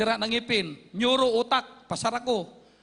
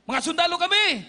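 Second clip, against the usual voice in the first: soldiers' call, higher and louder; retold shout; 5 semitones higher, 3 dB louder than usual. Soldiers shout to the hiding group, raised calling voice. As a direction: call out across the jungle to find them. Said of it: "sumigaw na".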